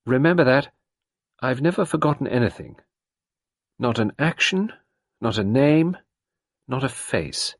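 a hint of a menacing old woman; malevolent quote. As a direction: recite her threat with light menace. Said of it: "She said it so malevolently".

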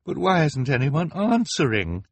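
distressed cry. A narrator's reading. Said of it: "Violet cried".

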